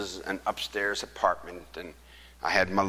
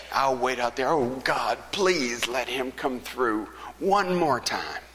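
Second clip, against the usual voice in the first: pleading; 5 semitones higher, 4 dB louder than usual. Retold or imitated. Desperate prayer building.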